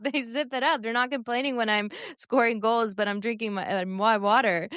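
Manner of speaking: a hint of mock Norwegian accent; playful touch of a Norwegian accent; imitated Norwegian accent. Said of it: "cute little accent".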